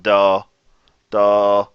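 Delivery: "Duh" with the mouth hanging still; demo vowel. Shown as a demonstration. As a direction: say "Duh" from the back of the throat, lips still. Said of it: "don't move your mouth".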